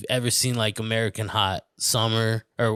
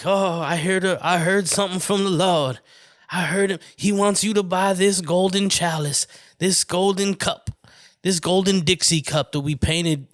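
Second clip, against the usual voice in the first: higher-pitched Southern preacher pitch; Southern televangelist; 5 semitones higher than usual. Acted. Mock preacher selling a golden cup from the Lord, Southern televangelist pitch. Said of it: "some Southern motherfuckers too".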